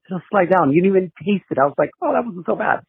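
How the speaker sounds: normal talking voice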